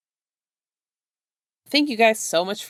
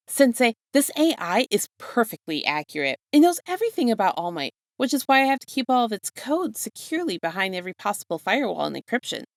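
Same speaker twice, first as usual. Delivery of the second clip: fast, high eager fanboy; excited Midoriya voice; 5 semitones higher than usual. Acted. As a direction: rush it out, thrilled.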